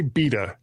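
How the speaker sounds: "beta" said as BEE-tuh; beta our way. Shown as a demonstration. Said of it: "we say".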